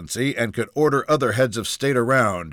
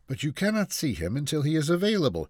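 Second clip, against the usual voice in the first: calm receptionist, pitched higher; 6 semitones higher than usual. Acted. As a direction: hold firm politely without raising the volume. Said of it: "the receptionist replied calmly".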